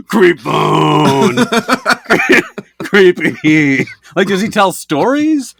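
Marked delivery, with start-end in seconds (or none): 0.1-3.9 creepy caller voice. Retold or imitated. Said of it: "besides going".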